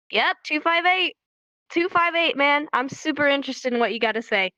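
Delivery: mock interest, starting a little high; sarcastic. Listener to someone who keeps talking and talking, sarcastic. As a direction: pretend to care, sarcastically. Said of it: "It's super sarcastic".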